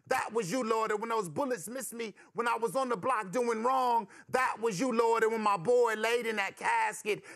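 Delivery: impassioned poetic testimony to the Lord; young man's prayer. Acted. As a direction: question God in a rolling, rhythmic rush. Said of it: "And he says".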